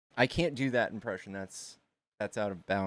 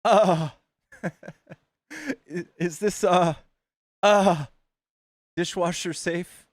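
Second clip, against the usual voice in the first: Lorraine; 7 semitones higher, 8 dB louder, slower than usual. Acted. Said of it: "Lorraine was good too".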